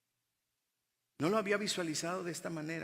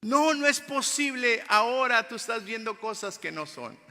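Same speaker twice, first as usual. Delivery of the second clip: mock disbelief; 8 semitones higher, 10 dB louder than usual. Acting out disbelieving disciples.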